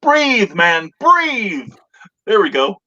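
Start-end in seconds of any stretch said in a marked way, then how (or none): 0.0-1.7 loud, high, drawn-out plea to breathe; urgent joke punchline. Acted. Host delivering the grape joke's punchline, urgent and loud. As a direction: call it out, stretching each breathe.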